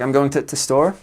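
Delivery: "the" cut down to a "t" sound; Midlands-style "the", reduced to t; northern "the". Shown as a demonstration. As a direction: say "the store" as "t' store". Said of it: "they say t".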